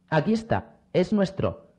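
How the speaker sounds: a hint of a shout as they close in; mild shout. A narrator's reading. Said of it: "gritaron los recién llegados".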